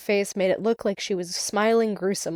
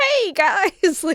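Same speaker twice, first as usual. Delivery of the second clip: very high pitched voice that cracks; 11 semitones higher, 3 dB louder than usual. Discussing the books, the speaker imitates Percy greeting everyone: Percy's cracking voice. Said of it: "with his crackling voice".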